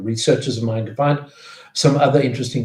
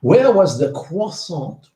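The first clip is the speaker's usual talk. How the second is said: "croissant" in a slow, put-on French accent, kwah-sahn; host mangles "croissant" into mock French; bad French accent; 5 semitones higher, 4 dB louder, slower than usual. Shown as a demonstration. Quiz host reading the last question, bad French accent on "croissant". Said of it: "maybe with my very bad accent".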